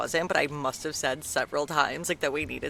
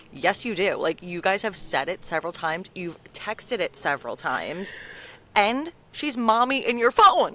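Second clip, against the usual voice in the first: insistent; 4 dB louder than usual. Retold or imitated. Friend proving to Jack that she says mommy, insistent. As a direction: press the point, ending loud and incredulous.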